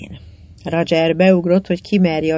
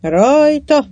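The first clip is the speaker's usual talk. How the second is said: high, loud word of command; 9 semitones higher, 5 dB louder than usual. A narrator's reading. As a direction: call the crew into action, pitched up. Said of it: "vezényelte Nancy".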